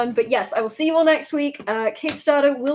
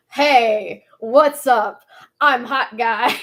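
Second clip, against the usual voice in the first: lightly put-on character voice, punchy and louder on the greeting; hot guy impression; 4 dB louder, much slower than usual. Streamer playing hot guy, light punchy impression. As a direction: introduce yourself as the character, each phrase set apart. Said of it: "I can do a hot guy impression".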